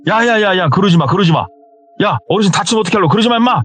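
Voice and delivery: high-pitched urgent retold plea; urgent warning. Friend rushing to stop his brother, urgently alarmed.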